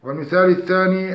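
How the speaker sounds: usual speaking voice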